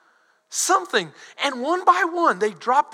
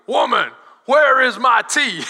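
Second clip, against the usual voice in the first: laughing son imitation; 4 dB louder than usual. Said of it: "and he goes".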